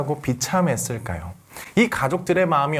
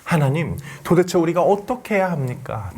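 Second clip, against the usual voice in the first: crying out to God; 4 semitones higher than usual. Retold or imitated. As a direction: plead with God in anguished anger. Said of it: "악을 쓰며 화를 냈을 것 같아요".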